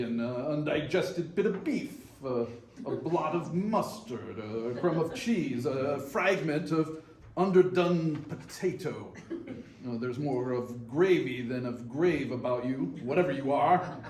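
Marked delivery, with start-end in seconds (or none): 5.7-14.0 chuckling through the joke; laughing off the ghost with a scoff; mocking laugh. Scrooge scoffs at Marley's ghost, laughing as he talks.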